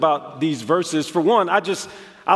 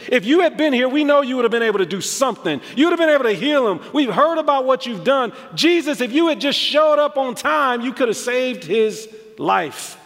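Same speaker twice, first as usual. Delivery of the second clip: fast, higher, louder complaint, rushing to blame; frustrated plea; 7 semitones higher, 3 dB louder than usual. Retold or imitated. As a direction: press him hard, almost scolding for being late. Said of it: "That was their frustration".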